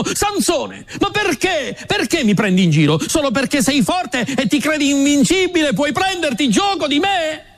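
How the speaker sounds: a mild indignant outburst; angry reproach. Acted. Dalila scolds Sansone for lying again, mildly indignant. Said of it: "si arrabbiò moltissimo".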